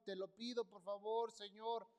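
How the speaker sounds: slow, rising plea on ten misericordia; retold pleading prayer. Son retelling his cry to God for his mother, pleading. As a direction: beg for mercy, building. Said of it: "llorando y clamando al Señor".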